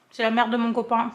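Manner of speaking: talking through a mouthful; mouth full. Real, not acted. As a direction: say it while still chewing. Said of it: "je mange la, la bouche pleine".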